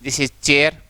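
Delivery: चेयर said with a rising end; pronouncing chair. Shown as a demonstration. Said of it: "इस तरह से ये sound आएगी आपको". (चेयर का उच्चारण)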